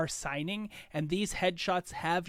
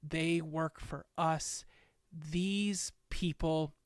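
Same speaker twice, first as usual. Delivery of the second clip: mayor presents the five heroes, stately; formal speech. Acted. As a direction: announce them with pomp.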